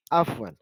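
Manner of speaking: आफ़वन with a throaty Arabic ain at the start; Arabic ain sound. Shown as a demonstration. Teacher to students, आफ़वन with the ain sound. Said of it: "आइन से शुरू है".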